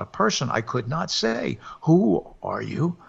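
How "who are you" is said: slow, breathy, frightened whisper. Acted. Husband cannot speak aloud to the figure, frightened whisper. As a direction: ask it without voice, too scared to speak. Terrified man at the door.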